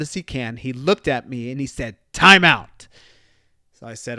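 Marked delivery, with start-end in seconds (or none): 2.1-2.9 put-on high, loud child's voice; toddler's demand. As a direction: mimic a two-year-old shouting it. Toddler demanding timeout, retold.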